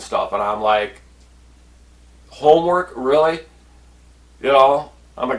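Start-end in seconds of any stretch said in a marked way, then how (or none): 2.3-3.4 incredulous. Retold or imitated. Incredulous at being given homework.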